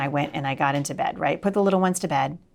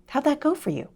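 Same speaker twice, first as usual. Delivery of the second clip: the Lord; 8 semitones higher than usual. Retold or imitated. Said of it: "I just heard the Lord".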